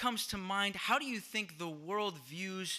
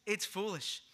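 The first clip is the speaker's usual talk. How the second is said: understated dismissive repeat; mild scoff. Retold or imitated. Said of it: "That's how they would say it".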